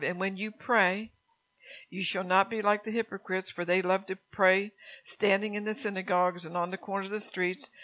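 scripture reading. Acted. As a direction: read the verse with pulpit weight.

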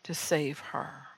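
a mild gentle voice slowing right down at the end; gentle, loving. Retold or imitated. God answering her prayer for the granddaughter: mild gentle tone. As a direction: retell God's answer with a touch of tenderness. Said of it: "very lovingly and very gently said".

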